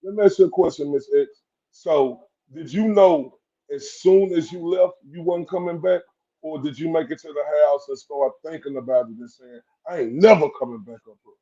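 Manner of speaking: quiet, probing question; soft and low. Real, not acted. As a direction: lean in and ask gently. Host lowers voice for question.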